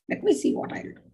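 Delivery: whispered threat, high and hushed; menacing whisper. Retold or imitated. Parent threatening a child who won't listen, whispered menace. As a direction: hiss the threat under your breath.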